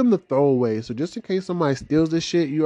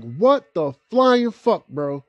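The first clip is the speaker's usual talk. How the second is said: drawn-out disbelief; 2 semitones higher, slower than usual. Retold or imitated. To his friend in the middle of the party, slow stunned disbelief. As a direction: stretch out the shock. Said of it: "I'm like".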